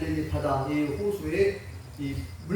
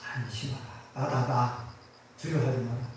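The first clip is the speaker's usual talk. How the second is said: calm reassurance; 7 semitones lower, 5 dB quieter than usual. Acted. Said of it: "예수님 뭐라고".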